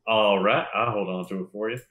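Root's voice. Shown as a demonstration. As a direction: say it like Root. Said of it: "this is what Root sounds like".

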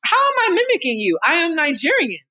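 a daughter refusing the charge of mimicking, indignant; indignant protest. Real, not acted. Defending herself against mom's accusation.

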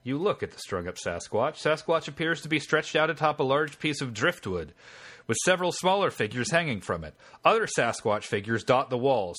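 measured game-master narration; story narration. A narrator's reading. Game master reading the scene to the player, story narration. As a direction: read the adventure text out as story.

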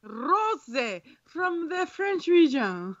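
put-on slow, playful take on a Spanish accent; mock Spanish accent. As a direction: draw it out in a joking Spanish accent. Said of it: "with a Spanish accent".

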